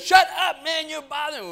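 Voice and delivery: high, loud mock scolding; exasperated yell. George snapping at his pretend brother, exasperated. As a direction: burst out high and loud, then ease off.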